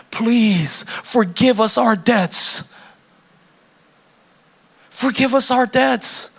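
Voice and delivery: slow, drawn-out solemn praying; pious prayer voice. Acted. Praying to the bank manager instead of helping, slow and solemn. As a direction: pray it slowly, hands folded, to dodge paying.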